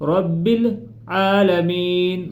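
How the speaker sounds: very slow, tuneful recitation; drawn-out recitation; melodic recitation. Shown as a demonstration. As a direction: chant the phrase out long. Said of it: "مضبوطی کے ساتھ".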